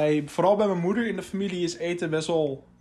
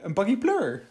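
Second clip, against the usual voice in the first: Hague accent; 4 semitones higher than usual. Shown as a demonstration. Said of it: "is Haags".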